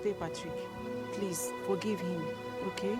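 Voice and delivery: low, hushed, drawn-out plea; soft pleading. Acted. Bystander begging Patrick to forgive him, soft pleading. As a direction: beg gently under the shouting.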